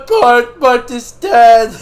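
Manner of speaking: high, loud and slow spooky reveal; spooky announcer. Pretend. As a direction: boom it out like a horror trailer. Dramatic spooky title reveal.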